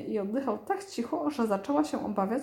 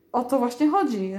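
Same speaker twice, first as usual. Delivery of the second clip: passionate roar; 5 dB louder than usual. Acted. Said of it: "ryknął z pasją Isambard".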